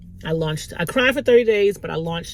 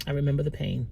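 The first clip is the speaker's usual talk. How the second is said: holding back tears; 3 semitones lower, 7 dB quieter than usual. Real, not acted. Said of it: "still making me cry".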